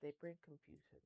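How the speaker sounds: flat mechanical robot voice. Shown as a demonstration. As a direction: say it like a monotone robot. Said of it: "I will sound like a robot".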